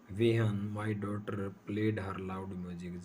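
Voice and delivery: very slow, each word spaced; slow dictation pace. Shown as a demonstration. Teacher dictating the example sentence to students, slowly. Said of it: "एक example और है".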